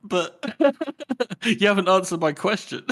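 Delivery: high-pitched protest through laughter; mock bafflement. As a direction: imitate an ignored underling, laughing. Imitates baffled subordinate, ignored by general.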